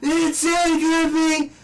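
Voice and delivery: high strained whisper-yell singing. Retold or imitated. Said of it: "he whisper yelled the whole time".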